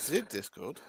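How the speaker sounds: put-on questioning echo in a French accent; mock French accent. Co-host echoing the host's slip, mock French accent. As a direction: say "Discord" with a playful French "ze". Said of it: "we have gone French".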